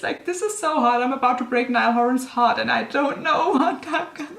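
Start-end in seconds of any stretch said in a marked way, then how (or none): 1.0-4.4 laughing. Real, not acted. Laughs at own dramatic story.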